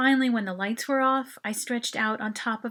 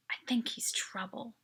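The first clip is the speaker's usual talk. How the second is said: hushed, breathy whisper of a warning; 6 dB quieter than usual. A narrator's reading. Narrator whispering to her friend about the boy, hushed. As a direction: whisper it so only your friend hears. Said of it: "I whispered".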